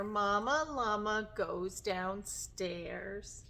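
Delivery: measured, rhythmic rhyme reading; storybook reading to children. Acted. Teacher reads a bedtime tale to children, gentle storytime reading. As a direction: read the rhyme gently, stretching the last words.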